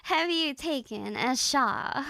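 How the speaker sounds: slow, deliberate British English; British accent. Acted. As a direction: say it slowly in put-on British. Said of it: "How would you say that in British English".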